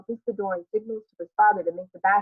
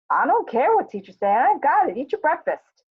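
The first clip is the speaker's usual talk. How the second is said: higher, louder, exasperated mother; acted maternal scolding, pitched up and forceful; 7 semitones higher, 6 dB louder than usual. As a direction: shut down the child's argument firmly. Acted mother scolding her insistent son.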